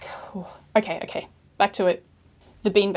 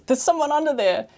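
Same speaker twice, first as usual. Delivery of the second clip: surprised; 6 semitones higher than usual. Retold or imitated. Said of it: "heard someone say in surprise".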